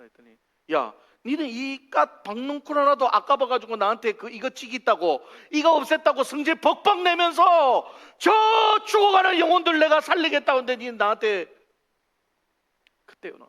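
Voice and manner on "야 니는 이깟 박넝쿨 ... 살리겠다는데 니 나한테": high, loud scolding building to a shout; indignant tirade at full voice; furious rebuke. Acted. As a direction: thunder at someone for petty selfishness. God rebukes Jonah, acted out.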